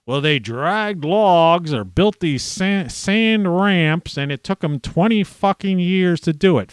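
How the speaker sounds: a hint of a condescending lecturer; mocking quote. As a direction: drag it out like a scoffing impression of a know-it-all. Mocking skeptics' explanation.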